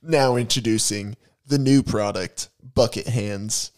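pitching a product on TV; upbeat infomercial announcer; home shopping host. Pretend. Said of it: "This commercial time turned into info".

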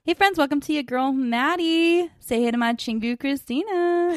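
sing-song podcast greeting, names lifted high; mock show intro. Host tries a new intro for co-host, sing-song. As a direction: draw out each name like a host. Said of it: "I'll be like".

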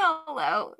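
high, slow, odd cartoon voice; cartoon imitation. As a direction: stretch it out like a cartoon. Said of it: "That's so funny".

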